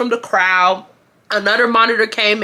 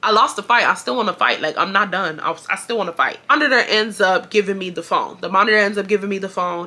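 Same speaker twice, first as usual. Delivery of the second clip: ordinary delivery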